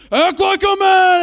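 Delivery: imitated kid brother's yell back; high, loud, drawn-out mock bellow; Josh. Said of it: "And Josh will be like".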